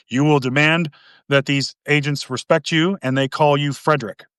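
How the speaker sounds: measured, lightly imitated stern boss; real serious manager. Manager demanding respect from the agents, lightly imitated stern. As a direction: play a serious boss giving orders. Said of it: "he was a real serious dude".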